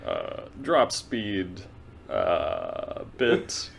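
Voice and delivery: lightly voiced pilot intercom announcement; a hint of a calm captain; airline captain. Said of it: "this is your captain speaking".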